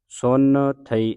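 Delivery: ਸੁਨ ਥਈ said slowly as two separate words; ਸੁਨ ਥਈ with a clear break before ਥਈ; split pronunciation. Shown as a demonstration. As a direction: hold ਸੁਨ, then a separate ਥਈ. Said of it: "ਇਸ ਤਰ੍ਹਾਂ ਉਚਾਰਨ ਕਰਨਾ ਹੈ".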